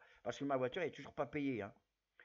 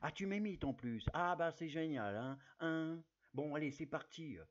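Gérard Depardieu impression. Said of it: "je vais faire la voix de Gérard Depardieu".

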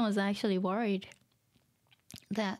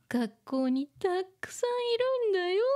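put-on defensive older sister; 8 semitones higher, faster than usual. Re-voicing older sister line.

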